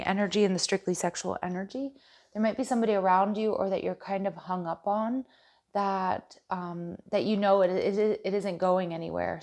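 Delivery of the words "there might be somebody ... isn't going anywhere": stuttering. Real, not acted. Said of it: "Sorry, I'm stuttering".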